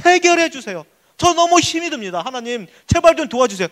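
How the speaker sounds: high, urgent plea to God; pleading prayer. Acted. Congregant praying out of hardship, urgent pleading. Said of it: "기도하고 있을 겁니다".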